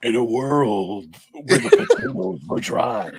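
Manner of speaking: epic movie trailer announcer voice. At dinner, a dad answers his kid's plea for a normal voice, movie trailer voice. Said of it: "He does an intro for every sentence".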